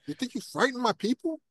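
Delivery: a bad Godfather-style New York accent; terrible New York accent. Co-host mocks Superman's line as a Godfather mobster, in a terrible New York accent. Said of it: "it's a terrible New York accent".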